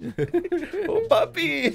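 put-on very high, gushing Latino-accented plea; mock Latino accent. Scammer sweet-talking the grandfather, mock Latino accent. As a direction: squeal it in a fake Latino accent. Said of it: "why do you sound Latino".

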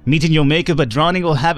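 lightly put-on wandering accent; Sasha Van Hoff. Gamer voices sailor recalling undead at sea, wandering accent. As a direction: read it in a character accent that keeps drifting. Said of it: "I'm not even sure where this accent is going".

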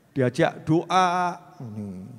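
a lifeless, stiff face while praying, mumbled; mock stiff statue. Shown as a demonstration. Preacher mocks a stone-faced congregant, mumbling. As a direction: act out a blank worshipper. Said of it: "akting gini-gini".

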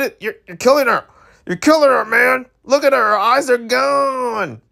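high, fast teasing alarm; excited teasing. Real, not acted. Streamer teasing the boy over the girl, excited. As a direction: tease him like he's breaking her heart. Character looks flustered in game.

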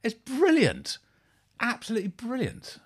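high, loud gushing praise. Real, not acted. Reacting to a song, gushing high and loud. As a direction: swoon over how catchy it is.

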